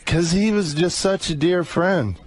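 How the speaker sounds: tearful, voice lifted high; crying on the phone. Real, not acted. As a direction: choke up as you speak. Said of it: "Why are you crying?".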